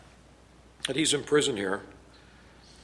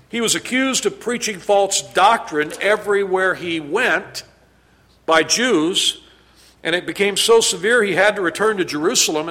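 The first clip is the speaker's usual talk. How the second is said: louder, driving recital of persecutions; preaching; 4 semitones higher, 6 dB louder than usual. Acted. Preacher recounting Paul's trials to the church, fervent. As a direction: build the list with rising intensity.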